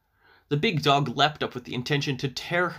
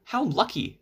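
put-on little girl voice; 7 semitones higher than usual. A narrator's reading. Girl voiced in fairy tale.

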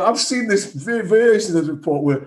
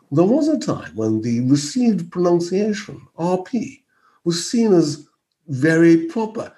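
mock RP accent; very proper, old-style RP delivery; received pronunciation. Shown as a demonstration. Commentator showing how received pronunciation once sounded, mock RP accent. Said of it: "When you hear someone talking like that".

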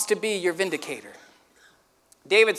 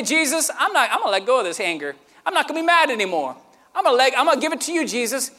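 higher, fast, tumbling surrender; urgent prayer; 4 semitones higher, faster than usual. Acted. Pastor voicing someone's prayer to Jesus, high and fast. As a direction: rush the words out to God.

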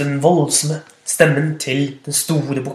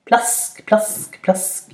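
splashing sound; 6 semitones higher, much slower than usual. Acted. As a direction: breathe out little splashes. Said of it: "sa det mens han svømte". (hviskende plask)

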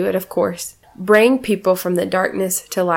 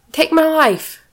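mock wail; 8 semitones higher, slower than usual. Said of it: "Jonah's like".

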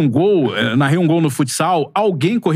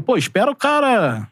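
quoted advice; 6 semitones higher, slower than usual. Retold or imitated. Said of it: "o cara falou".

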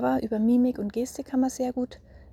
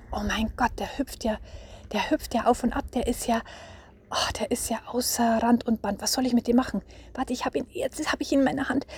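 put-on mildly excited, amazed theatrics for a child; play-acted astonishment; 2 semitones higher than usual. Shown as a demonstration. Mother catching the hopping anger dwarf, play-acted excitement. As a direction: marvel as you chase a hopping imp. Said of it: "ich stell's jetzt wirklich mal so dar".

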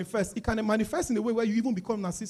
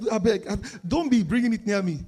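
squeamish father; 5 dB louder than usual. Retold or imitated. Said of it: "I was like".

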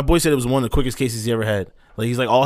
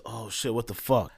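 understated reaction; 2 semitones lower, 7 dB quieter, slower than usual. Retold or imitated. Driver just hit a pole, understated dazed reaction. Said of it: "I'm like this".

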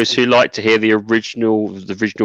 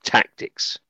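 whisper; 4 dB quieter than usual. Pretend. Teasing the game title.

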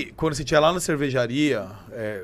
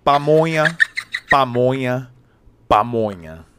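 pamonha car vendor; 2 semitones lower, 4 dB louder, much slower than usual. Acted. Mimicking the pamonha car, loud vendor cry. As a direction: call out the product like a passing van, stepping down in pitch. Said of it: "Como é que é o carro da pamonha".

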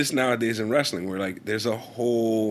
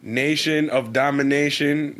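suggestive read; slower than usual. Pretend. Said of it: "gives me porn vibes".

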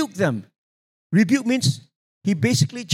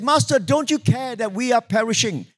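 higher-pitched mock plea; retold crying out; 6 semitones higher than usual. Disciples wake Jesus in the sinking boat, retold crying out. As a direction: retell the frightened cry, without shouting. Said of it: "they were shouting and crying out".

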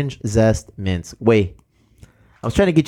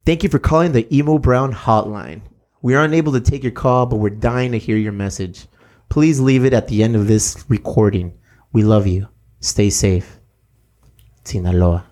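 polished hotline greeting, even and smooth; voicemail greeting read; 3 semitones lower than usual. Shown as a demonstration. Host recording the podcast hotline greeting, in a smooth announcer read. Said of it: "Record new greeting".

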